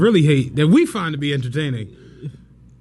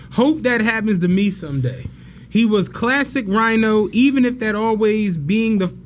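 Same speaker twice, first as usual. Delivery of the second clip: reading a statement. Shown as a demonstration. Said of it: "I'm gonna read this, what Donald Trump said".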